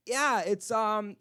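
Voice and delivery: put-on slightly drunk and eager to lead the way; drunk lady. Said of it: "like, really drunk".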